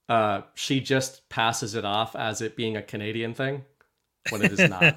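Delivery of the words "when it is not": laughing. Real, not acted. Laughing at his wife's excuse.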